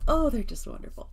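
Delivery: high, loud, laughing delight; excited gushing. Real, not acted. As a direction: gush over them with a laugh. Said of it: "I'm very excited about this".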